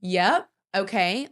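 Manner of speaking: slow, grudging mock compliance; mock frustration. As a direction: drag out a put-on reluctant agreement. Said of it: "without showing me your frustration".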